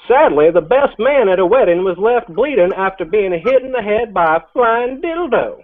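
hammed-up local news anchor voice; mock news anchor accent. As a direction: read it like a cheesy TV newsman. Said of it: "talk the whole rest of this thing in this accent".

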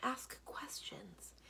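slow, secretive whisper; replied softly. A narrator's reading. Simrine answers her companion at the gate, just as softly. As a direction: whisper back, drawn out. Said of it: "Simrine replied just as softly".

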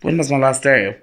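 talking while chewing gum. Real, not acted. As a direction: chew gum as you talk. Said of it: "Sorry, I'm chewing gum".

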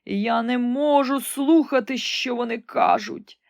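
begging to drown out the ghosts; anguished plea. Acted. Emperor pleads in terror. (благання в розпачі)

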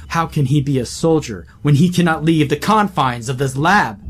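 rising anger, pressing each question harder; angry outburst. Acted. Rosenberg springs up, berates scientist.

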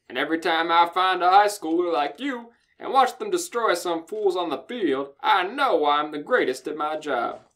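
Mare voice. Acted. Reads Mare's long speech.

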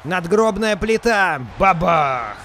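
slow loud finisher call; wrestling commentator. Acted. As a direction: announce the move, then boom. Calls finisher move.

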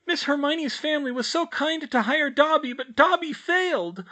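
high-pitched, loud elf lament; Dobby wailing. A narrator's reading. House elf blaming himself for the fire, high wail. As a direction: keep wailing in self-blame, squeaky and loud. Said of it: "he wailed".

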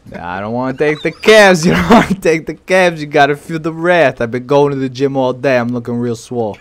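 hammed-up guido bravado; Jersey Shore guido. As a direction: boast like a swole party guy. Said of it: "I say".

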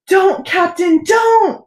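high, loud warning cry; desperate shout. A narrator's reading. Boy tries to stop captain eating goo, shouting. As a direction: yell urgently to stop him.

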